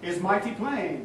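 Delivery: slow, quiet prompt of the line; feed it slowly and softly; slow line reading. Shown as a demonstration.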